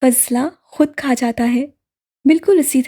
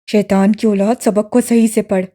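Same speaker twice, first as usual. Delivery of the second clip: put-on harsh, louder scolding of a child; angry scolding teacher; 3 semitones lower, 4 dB louder than usual. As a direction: bark the insult at the boy. Qari scolds and beats the boy. (ग़ुस्से में डाँटता हुआ क़ारी, ऊँची आवाज़ में)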